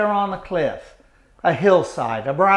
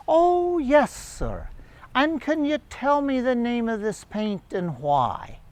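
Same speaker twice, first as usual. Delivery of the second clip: put-on British accent; 6 semitones higher, 4 dB quieter than usual. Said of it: "she had this delightful British accent".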